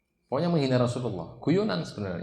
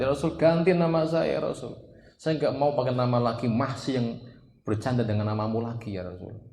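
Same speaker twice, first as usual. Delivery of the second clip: desperate plea; 3 semitones higher, 4 dB louder than usual. Retold or imitated. Companion begs to change name.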